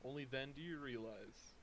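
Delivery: dramatic scene-setting narration; game master narration. A narrator's reading. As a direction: set the gloomy scene. GM scene description.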